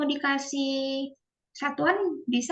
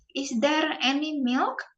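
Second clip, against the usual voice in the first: slow model question; 2 semitones higher than usual. Shown as a demonstration. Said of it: "Kayak misalnya".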